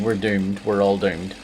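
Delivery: put-on lightly done Scottish accent; a hint of a Scottish doom-monger; Scottish guy from Dad's Army. Player re-doing a missed impression, light Scottish accent. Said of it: "it was an impression of the Scottish guy".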